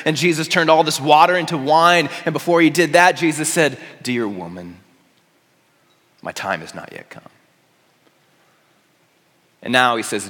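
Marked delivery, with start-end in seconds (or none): 4.0-7.2 dropped low and soft; gentle hushed quote. Retold or imitated. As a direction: speak softly, as a son to his mother. Jesus quoted to his mother.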